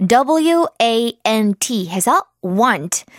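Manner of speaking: breathy, unhurried letter-by-letter whisper; slow whispered spelling. Shown as a demonstration. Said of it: "spelling want for children".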